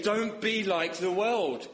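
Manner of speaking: slow, high, solemn command; prophetic charge. Acted. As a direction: proclaim like Moses to the people. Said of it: "They say".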